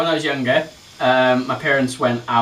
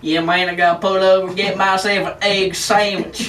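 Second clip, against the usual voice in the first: put-on American hick accent; 7 semitones higher, 4 dB louder than usual. Friend repeats the diner line in a hick American accent. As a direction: play it like a backwoods American trucker. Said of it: "that's proper hick".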